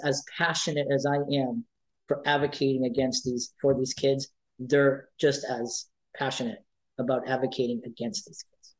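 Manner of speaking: real upset, subdued and sinking; brought to tears. Real, not acted. Advocate fearing for the kids they fight for, near tears. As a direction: let the voice sink and fade out to almost nothing. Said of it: "It brings me to tears".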